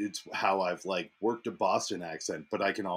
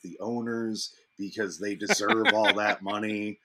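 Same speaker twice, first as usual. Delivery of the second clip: mock radio caller. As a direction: play an earnest first-time caller, measured. Plays a sports radio caller.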